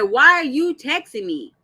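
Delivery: loud, irritated demand; mock angry. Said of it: "got mad and said".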